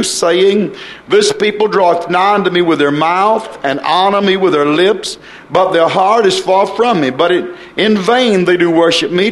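preacher reciting solemn scripture; scripture reading. A narrator's reading. Reads scripture aloud.

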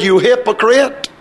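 emphatic, mildly heated accusation; preacher's retold denunciation; stern rebuke. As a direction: call them out squarely, imitating a stern rebuke. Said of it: "I tell you the way he said it".

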